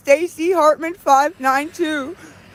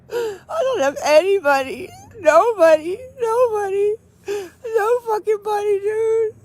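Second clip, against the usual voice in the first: crying; 3 semitones higher than usual. Real, not acted. Crying, alone.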